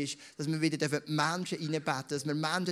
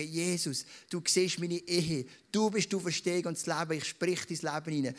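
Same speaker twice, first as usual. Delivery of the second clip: modelled prayer. Shown as a demonstration. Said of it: "du darfst es wirklich auch laut sagen und sagen".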